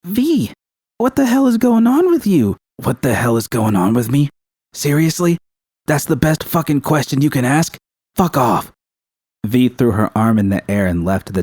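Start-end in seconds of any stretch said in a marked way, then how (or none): 0.0-2.6 much higher, pleading call across the tent; calling out after her. Acted. Judy calling after V as she leaves, upset. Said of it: "when Judy called out to her". 2.8-8.7 higher, scornful, incredulous retort; incredulous anger. Acted. V mocking Judy's question before storming out. V throwing question back angrily.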